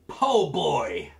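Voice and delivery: loud, high, drawn-out announcement; triumphant reveal. Real, not acted. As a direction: belt out the dish name like a big reveal.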